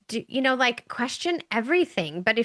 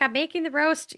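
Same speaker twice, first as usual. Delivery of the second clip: higher-pitched granddaughter voice; granddaughter explaining; 6 semitones higher than usual. Retold or imitated. Granddaughter tells grandma about dinner, explaining.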